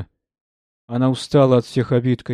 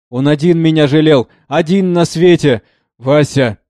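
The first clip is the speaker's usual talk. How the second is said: sobbing; 4 semitones higher, 6 dB louder than usual. A narrator's reading. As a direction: cry out his name through tears. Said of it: "Она зарыдала мгновенно".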